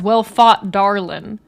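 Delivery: a light Southern cowboy "Well fought, darlin'."; Southern drawl. Retold or imitated. Retelling Wade's line to Sadie in a mild Southern accent. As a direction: tip the hat and drawl it out Southern. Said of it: "Wade has a cowboy hat".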